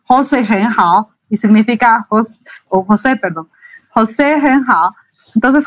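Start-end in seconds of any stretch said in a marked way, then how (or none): 0.0-1.1 "José hen hao" said slowly and carefully; unhurried teaching example. Shown as a demonstration. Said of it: "por ejemplo". 3.9-4.9 "José hen hao" said slowly and carefully; unhurried teaching example. Shown as a demonstration. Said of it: "por ejemplo".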